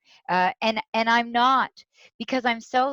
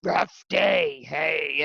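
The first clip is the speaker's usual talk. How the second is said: Swedish man; much slower than usual. Retold or imitated. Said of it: "And he says".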